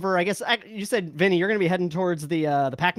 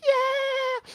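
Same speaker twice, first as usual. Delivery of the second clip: much higher hair metal scream; rock singer wail. Retold or imitated. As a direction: belt it like an eighties frontman. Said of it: "just wailing".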